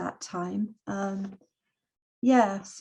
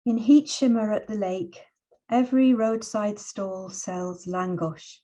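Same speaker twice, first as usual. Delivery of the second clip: measured, unhurried poetry reading with long pauses; poem reading. Acted. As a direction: let each image land, read it gently. Reads poem for her son.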